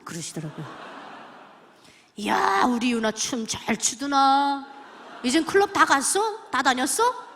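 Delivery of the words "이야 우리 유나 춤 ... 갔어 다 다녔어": Pyongan dialect teasing. Retold or imitated. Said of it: "평안도 사투리 하시거든요".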